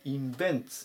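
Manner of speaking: インベンツ ending in a fused "ts"; インベンツ with T and S run together; joined t and s. Shown as a demonstration. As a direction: say インベンツ as "in-VENTS". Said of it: "っていうふうに聞こえます".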